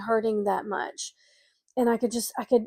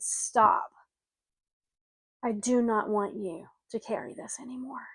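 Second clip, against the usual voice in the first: hushed, breathy whisper; whispered spirit voice. Retold or imitated. Mother's spirit hushing her grieving daughter, whispered. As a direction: whisper it like a presence in the room. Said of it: "presence entered my room and said".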